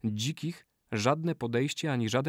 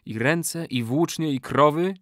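slightly raised ceremonial call; solemn incantation; 4 semitones higher than usual. A narrator's reading. Old man lists what will be shared, solemn. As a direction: prompt the brothers to swear. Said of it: "ozwał się uroczystym głosem".

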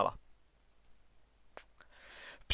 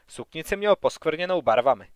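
ordinary delivery

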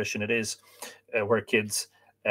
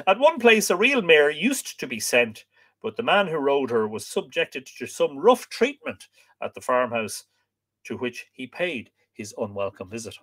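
book reading aloud; 3 semitones higher than usual. A narrator's reading. Reading about the rider's rough treatment, measured narration.

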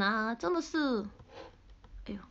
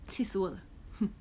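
breathy whisper, softer, pretend annoyed; whispered mock huff; 4 semitones lower, 6 dB quieter, faster than usual. Streamer fake-fuming at fans, whispered. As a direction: sigh it out as if fuming.

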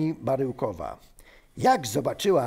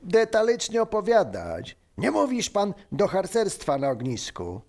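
higher-pitched irritated outburst; zdenerwowany; 6 semitones higher than usual. Acted. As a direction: cut in, annoyed. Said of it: "zdenerwował się pan Benek". (zirytowane upomnienie)

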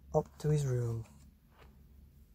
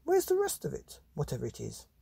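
mum's voice; faster than usual. Acted. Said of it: "said Mum".

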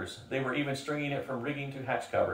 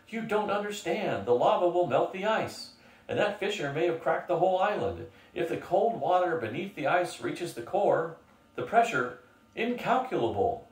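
panicked explanation; 7 semitones higher than usual. Acted. Panicked schoolmaster explaining the danger.

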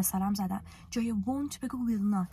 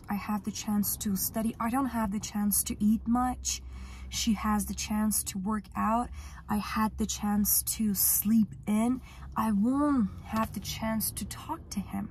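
slow model sentences; much slower than usual. Shown as a demonstration. Teacher models self-talk practice.

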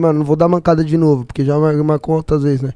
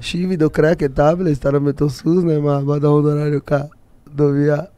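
backwards speech; 5 semitones lower, 4 dB quieter than usual. Shown as a demonstration. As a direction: sound the phrase out in reverse. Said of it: "o cara sabe falar tudo ao contrário".

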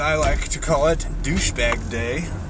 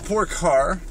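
soft, coddling words to the car; mock tender baby talk; 4 semitones higher, 4 dB quieter than usual. Driving, to his sick car, mock tender coo.

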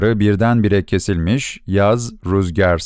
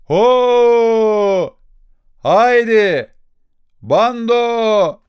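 ox-driver's call; 11 semitones higher, much slower than usual. Acted. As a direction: holler like stopping oxen. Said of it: "Öküzleri durdurur gibi bir ses". (öküz durduran yüksek haykırış)

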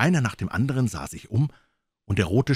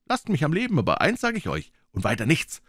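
put-on young Jim speaking up bravely, a bit higher; defiant boy pleading; 4 semitones higher than usual. Jim faces the pirates, defiant and pleading. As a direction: plead boldly for his life.

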